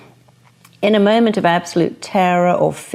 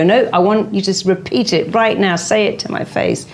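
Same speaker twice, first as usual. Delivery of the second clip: mock confrontation; 3 semitones higher than usual. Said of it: "you must not go after them and go".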